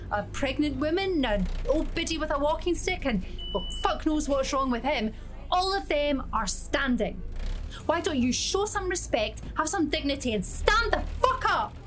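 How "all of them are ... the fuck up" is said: ranting at the whole bus; wild unhinged ranting. Acted. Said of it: "the deafening tone of a mad Scottish bitch, voiced like a foghorn".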